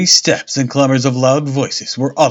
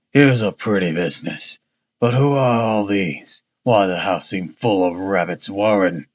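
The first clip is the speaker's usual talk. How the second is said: lower, husky voice of a stout inspector; muffled husky tone; 4 semitones lower than usual. Acted. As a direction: grumble it thickly from the chest. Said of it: "he cried in a muffled, husky tone".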